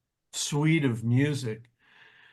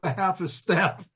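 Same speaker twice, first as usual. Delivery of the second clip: mock indignant complaint; 4 semitones higher than usual. Retelling Jackie's onstage complaint.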